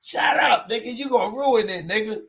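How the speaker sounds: an LA robber hissing at the host to shut up; annoyed LA dude. Retold or imitated. LA robber telling host to shut up, high and loud.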